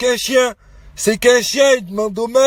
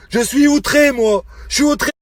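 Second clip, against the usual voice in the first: outraged; 3 semitones higher than usual. Real, not acted. Family man protesting to the woman he scolds, outraged. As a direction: protest with raised pitch, indignant.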